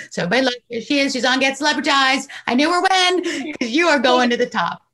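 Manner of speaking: host cheering on her first guest, excited; excited hype. Real, not acted. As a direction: announce her like a star about to blow up. Host hyping guest's big future.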